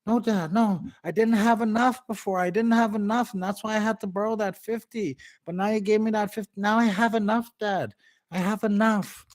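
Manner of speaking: put-on a kid proudly pleading his case; eager little son. Son explaining to dad he now has enough. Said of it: "And then the son said".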